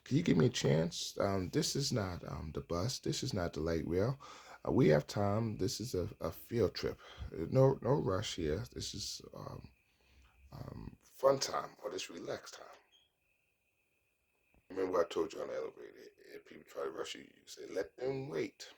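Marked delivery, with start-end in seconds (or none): 0.0-12.7 higher-pitched, playful protest; good-humored objection to being rushed; lighthearted pleading. Acted. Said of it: "while being lighthearted with it by saying". 17.7-18.7 high-pitched retort. Acted. Acted retort to being rushed.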